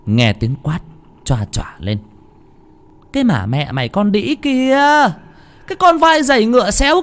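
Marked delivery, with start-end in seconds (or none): 3.1-7.0 much higher, shrill furious scolding; furious shrieking mistress. A narrator's reading. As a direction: scream abuse at the servant. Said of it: "mang theo cơn thịnh nộ". (bà chủ quát tháo giận dữ, giọng rất cao)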